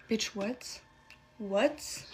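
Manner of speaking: hushed, incredulous question; stunned disbelief. Real, not acted. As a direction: drop your voice in stunned disbelief. Stunned reaction to stepdad's demand.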